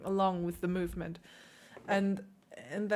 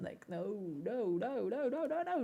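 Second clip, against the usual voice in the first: much softer, repeated no; soft correction; 9 dB quieter than usual. Real, not acted. Teacher softly corrects the student's rushed timing, quiet. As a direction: hush it down gently.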